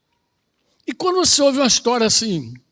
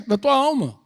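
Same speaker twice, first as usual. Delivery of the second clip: ordinary delivery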